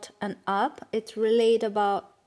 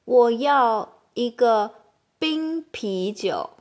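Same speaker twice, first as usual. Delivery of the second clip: ordering a cold beer; 6 dB louder than usual. Shown as a demonstration. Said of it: "And even you can say".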